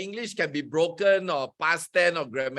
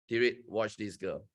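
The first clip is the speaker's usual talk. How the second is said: told Tirit; 7 semitones lower, 7 dB quieter than usual. Retold or imitated. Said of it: "I said".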